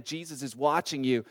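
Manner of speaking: lightly voiced unseen watcher, low and soft; mysterious voice. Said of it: "he hears his words again".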